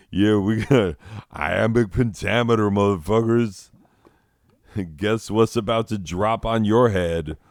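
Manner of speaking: loud cocky rapper-style Shakespeare boast; swaggering Shakespeare. Retold or imitated. Shakespeare bragging to his rivals, loud and cocky. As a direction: brag like a hip-hop Shakespeare dropping verses.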